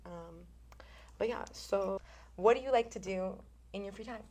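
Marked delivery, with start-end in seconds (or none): 3.7-4.2 whisper. Real, not acted. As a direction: lean in and whisper it. Whispered prompt to guest.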